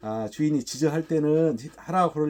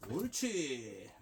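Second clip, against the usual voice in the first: long drawn-out, softer "good"; soft praise; 12 dB quieter, much slower than usual. Real, not acted. Trainer rewarding the dog for barking, soft praise. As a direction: stretch the praise out slowly, gently. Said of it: "칭찬은 아주 부드럽고".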